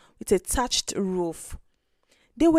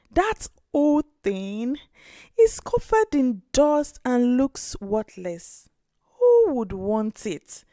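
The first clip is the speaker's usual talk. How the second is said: a poor grandmother letting her down kindly; gentle grandmother. Acted. Grandmother voice in story.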